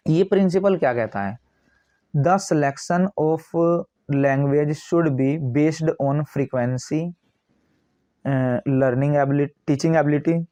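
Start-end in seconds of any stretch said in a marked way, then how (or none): 2.1-10.5 slow, word-by-word dictation reading; steady, spaced reading of a textbook line. Acted. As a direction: read it out like dictation to a class. Reads the English text slowly.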